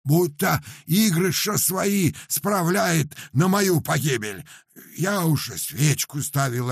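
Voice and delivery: high, loud peasant lament; Paramon's voice. Acted. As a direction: wail about the burning chest like a simple peasant. Paramon continues his lament.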